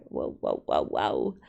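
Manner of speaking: very low, drawn-out whoa; deep whoa. Acted. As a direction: drop the voice way down. Surprise at the screen.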